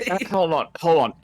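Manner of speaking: nasal voice, clothespin on nose; nose pinched. Real, not acted. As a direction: talk with your nose clipped shut. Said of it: "My clothespin on my nose".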